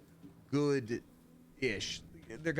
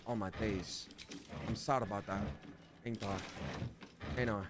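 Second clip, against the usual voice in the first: put-on London slang accent; 5 semitones lower, 7 dB quieter, slower than usual. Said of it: "I can't do that accent".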